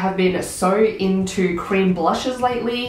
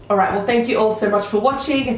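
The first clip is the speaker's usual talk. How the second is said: hoarse, sick voice, a bit quicker; croaky sick voice; 3 semitones higher, faster than usual. Real, not acted. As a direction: sign off while croaky from illness. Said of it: "my croaky, sick voice".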